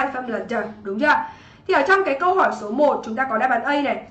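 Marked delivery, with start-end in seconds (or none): 0.5-0.5 "d" said as a consonant ending; ending sound d. Shown as a demonstration. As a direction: model "d" as the voiced -ed sound. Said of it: "Và phát âm thứ ba".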